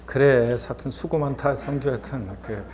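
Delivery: mild, soothing self-encouragement; gentle self-comforting. Acted. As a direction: console yourself kindly, unhurried at first. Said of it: "본인 또 토닥토닥거려주고".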